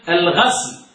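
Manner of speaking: "الغسل" drawn out slowly as al-ghasl; slow model of "الغسل" with an a vowel; فتح الغين. Shown as a demonstration. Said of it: "بالفتح". ("الغسل" ببطء وبفتح الغين)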